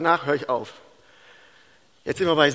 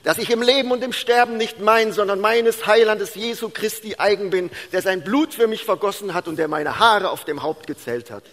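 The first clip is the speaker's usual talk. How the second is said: laut und erhöht rezitieren; auswendiges Aufsagen; 6 semitones higher, 6 dB louder than usual. Retold or imitated. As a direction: wie eine abgefragte Konfirmandin aufsagen. Mutter sagt Katechismus auswendig auf. (kräftig nachgespieltes Katechismus-Aufsagen)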